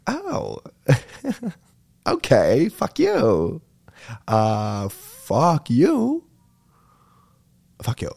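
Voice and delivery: shocked high squeak into a laughing fuck you; stunned laughing comeback. Retold or imitated. Telling how he reacted to her hair insult, stunned and laughing.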